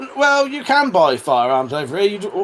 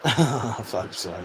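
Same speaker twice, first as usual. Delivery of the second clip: laughing; 6 semitones lower, 9 dB quieter, much slower than usual. Real, not acted. Laughing at the pen prank.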